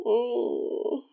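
ordinary talk

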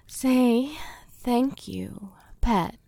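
slow, breathy whispered command. Acted. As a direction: whisper the order, slow and cruel.

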